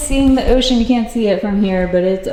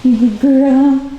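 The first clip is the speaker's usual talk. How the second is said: cooing to the dog; 4 semitones higher than usual. Real, not acted. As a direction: coo praise at the dog.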